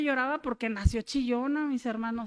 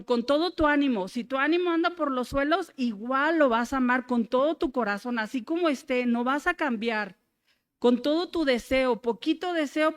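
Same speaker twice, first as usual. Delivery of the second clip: preaching. Real, not acted. Turns from testimony to preaching scripture.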